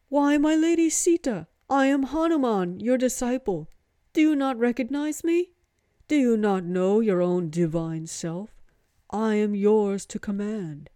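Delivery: high, loud, worshipful Hanuman voice; a devoted monkey god bursting with joy; eager monkey god. Acted. Monkey god greeting his lady Sita, high and eager.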